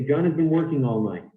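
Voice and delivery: weak "has been" between strong "John" and "working"; content-word stress. Shown as a demonstration. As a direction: stress "John", "working", "all", "night", slide lightly over "has been". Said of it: "we don't stress them".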